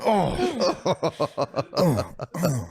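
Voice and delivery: high "oh" grunts through laughter; mock sexual moans. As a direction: imitate bumping noises with laughing moans. Imitating noises of the bump.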